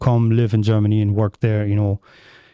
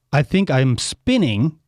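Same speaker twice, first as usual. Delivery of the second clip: slow literal translation; slower than usual. Shown as a demonstration. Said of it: "is really like".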